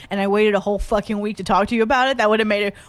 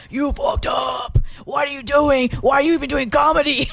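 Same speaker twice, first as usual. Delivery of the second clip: inner anxious voice; 4 semitones higher than usual. Retold or imitated. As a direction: scold yourself like your anxious brain. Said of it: "in my O C D anxiety brain was like".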